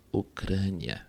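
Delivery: very soft murmured imitation; baixinho. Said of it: "a boca dela fala baixinho assim". (murmurando baixinho, quase sem voz)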